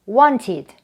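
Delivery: "wanted" as wan-tid with aspirated t; clear t. Shown as a demonstration. Teacher modelling the id rule, "wanted" as wan-tid. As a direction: sound the t in "wanted". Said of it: "wanted라고 발음이 됩니다".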